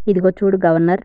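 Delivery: loud command. Acted. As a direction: call him out sharply. King repeats his order to governor. (గట్టిగా ఆజ్ఞాపిస్తూ)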